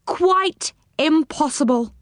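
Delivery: a touch of acted gloom, slowly; gloomy. A narrator's reading. Moonface dismissing the idea of squeezing down, slow and gloomy. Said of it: "said Moonface gloomily".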